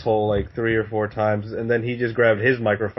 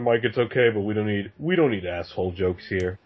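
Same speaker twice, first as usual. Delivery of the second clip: patronising judge; 4 semitones lower, 3 dB quieter than usual. Retold or imitated. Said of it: "He's like".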